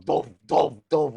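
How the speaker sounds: punchy mouthed thud sounds; imitated head thumps. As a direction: imitate repeated blows to the head. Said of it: "I'm sitting there going".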